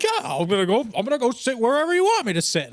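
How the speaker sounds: high, put-on voice of a difficult customer; mocking customer impression. Mimics difficult customer told to sit.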